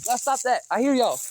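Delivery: calling to the cats to stop. Real, not acted. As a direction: call toward the noise.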